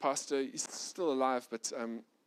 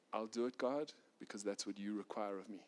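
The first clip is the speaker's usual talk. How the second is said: softer and lower, quiet surrender to God; humble prayer; 6 semitones lower, 8 dB quieter than usual. Acted. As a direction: pray it gently, almost under your breath.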